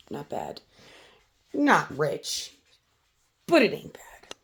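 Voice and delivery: a soft, pleased little whisper; whispered aside. Real, not acted. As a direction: whisper it to the camera. Aside about earnings.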